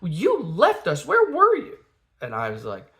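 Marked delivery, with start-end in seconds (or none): 0.0-1.8 imitated child's high, louder wail; mock crying. Upset daughter accusing dad, high mock-crying wail. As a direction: accuse Dad in a tearful put-on kid voice. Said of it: "she's, like, crying".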